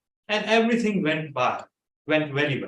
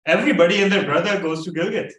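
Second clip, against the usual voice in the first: exasperated retort; 3 semitones higher, 6 dB louder, faster than usual. Retold or imitated. Arguing with doubtful friend.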